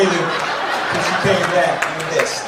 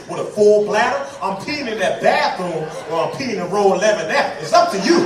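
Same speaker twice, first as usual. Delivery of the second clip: heated retort; 4 semitones higher, 4 dB louder than usual. Retold or imitated. Arguing with flight attendant.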